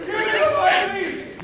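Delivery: high, slow, strained yell through laughter; panicked uncle yelling from the back seat at mom; desperate yell. Retold or imitated. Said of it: "yells at my mom".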